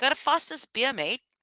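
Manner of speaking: New Zealand accent. Trying out a put-on accent for a listener: accent like a New Zealander. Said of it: "you sound just like her right now".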